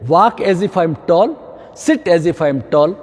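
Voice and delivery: slow, drawn-out mantra; slow instruction. Shown as a demonstration. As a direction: spell it out slowly for the class. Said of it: "ये thumb rule बनाइए।". (धीमा, खिंचा हुआ निर्देश)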